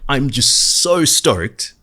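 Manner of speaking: stoked. Real, not acted. Vlogger tells fans about his London trip, slow loud excitement. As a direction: stretch it out, bursting with excitement. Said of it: "I'm super excited".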